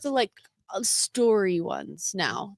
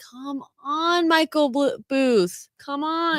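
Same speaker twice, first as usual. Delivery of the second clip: higher-pitched, pleading impatience; drawn-out plea in a higher voice; mock exasperation; 5 semitones higher, much slower than usual. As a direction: playfully nag someone who keeps you waiting. Acts out impatience at late podcast.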